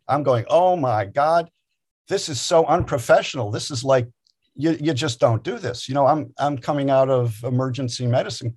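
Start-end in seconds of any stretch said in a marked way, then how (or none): 0.5-5.9 mildly aghast retold thought, pitched a little up; horrified inner voice. New chaplain silently judging a weeping priest, mildly horrified. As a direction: recount a shocked inward protest, understated. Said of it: "And I'm horrified".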